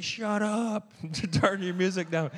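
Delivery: high, loud mock-angry shout; hammed-up angry holler; brother yelling. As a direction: yell it like an annoyed roommate through the house. Brother's yelling in a retold quarrel.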